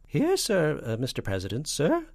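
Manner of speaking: high-pitched flustered spy; falsetto. A narrator's reading. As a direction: answer the boss in jumpy falsetto. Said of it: "and a falsetto voice".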